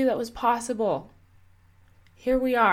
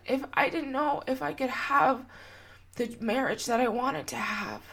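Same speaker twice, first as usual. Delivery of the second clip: choked up; 4 semitones higher, 3 dB quieter than usual. Real, not acted. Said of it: "I'm getting choked up".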